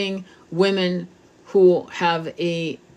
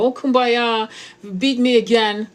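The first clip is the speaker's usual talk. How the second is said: sarcastic mock victim; 4 semitones higher, 3 dB louder than usual. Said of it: "The victim's gonna go".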